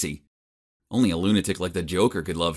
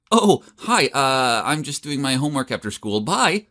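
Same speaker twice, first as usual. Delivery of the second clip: awkward; 4 semitones higher than usual. Retold or imitated. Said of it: "I awkwardly replied".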